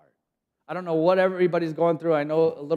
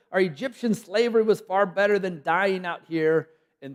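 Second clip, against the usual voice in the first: complaining; 5 semitones higher, 4 dB louder than usual. Acted. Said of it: "turned to Moses and complained".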